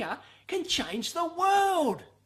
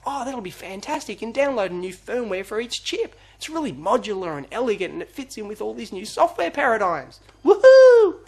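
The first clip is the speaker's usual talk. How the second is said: mock management voice; 3 semitones lower, 5 dB louder than usual. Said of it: "management took over".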